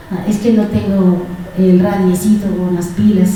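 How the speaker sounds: a sing-song dodge about the radio batteries; mock lame excuse. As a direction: play the lazy believer making excuses. Acted dialogue, lame excuse.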